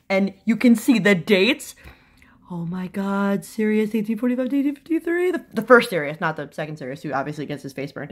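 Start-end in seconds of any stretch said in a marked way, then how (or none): 0.1-4.7 whispered in wonder; breathless whisper of awe; awed whisper. Real, not acted. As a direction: hush it like a secret treasure. Awed close look at tapestry.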